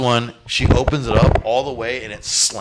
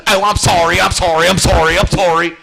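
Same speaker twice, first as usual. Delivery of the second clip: ditzy apology; 6 semitones higher, 6 dB louder than usual. Retold or imitated. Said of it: "She goes".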